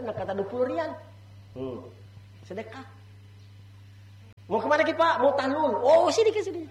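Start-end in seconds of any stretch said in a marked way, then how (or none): 4.5-6.6 calling out a pilgrim. Retold or imitated. Tout calling pilgrims in street.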